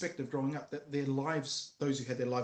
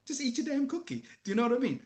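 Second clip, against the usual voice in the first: much higher, louder, exasperated; exasperated outburst; 10 semitones higher, 5 dB louder than usual. Real, not acted. Dad ranting about sharing cookies, high and loud. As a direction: burst out at the idea.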